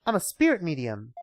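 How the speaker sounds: put-on high, amazed young woman; excited girl voice. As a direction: gasp in delight. Maya introducing herself.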